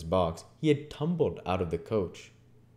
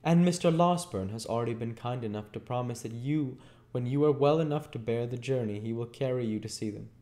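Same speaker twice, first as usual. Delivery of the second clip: lightly voiced, higher lady's voice; kindly young lady; 5 semitones higher than usual. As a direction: share good news as a gracious lady. Voices Rose in the story.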